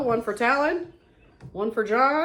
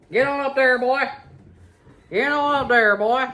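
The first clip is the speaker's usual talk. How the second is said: calling out; 6 semitones higher, 6 dB louder than usual. Real, not acted. Calling the dog up.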